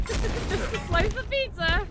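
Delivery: a squeaky cartoon voice for the pizza; hammed-up squeaky pizza voice; silly high voice. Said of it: "What was that?".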